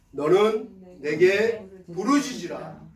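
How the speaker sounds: slow, phrase-by-phrase scripture recitation; measured recitation. Shown as a demonstration. Pastor leads congregation in the verse, slow recitation. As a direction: recite it slowly so others can join.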